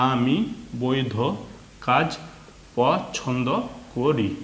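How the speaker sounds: teacher's model reading, one word at a time; reading-aloud demo. Shown as a demonstration. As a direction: read word by word, short pause after each. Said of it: "তাহলে তাড়াতাড়ি যদি বলি". (শব্দ ধরে ধরে reading পড়া)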